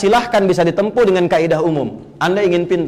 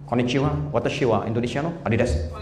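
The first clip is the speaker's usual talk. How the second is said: low, softer mock Japanese voice; Japanese accent; 8 semitones lower, 8 dB quieter than usual. Shown as a demonstration. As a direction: imitate a Japanese speaker for a joke. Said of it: "kayak orang Jepang".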